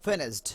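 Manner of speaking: "ফিনিশড" said "finisht"; T ending. Shown as a demonstration. Teacher modelling the easier sound, T ending on "ফিনিশড". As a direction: end "ফিনিশড" on a short, light T. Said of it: "ঠ বলা".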